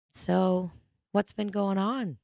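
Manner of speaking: imitating a laid-back doctor; casual, unhurried check-in, lightly voiced; chill doctor. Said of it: "she's just chill as could be".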